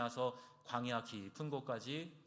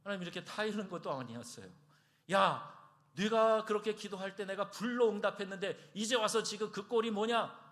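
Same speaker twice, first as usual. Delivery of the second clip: higher and louder, a mock rebuke; imitated reproach, raised and loud; mock scolding; 6 semitones higher, 4 dB louder than usual. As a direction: scold him like a disappointed father. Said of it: "핀잔하고 야단치지 않으셨어요".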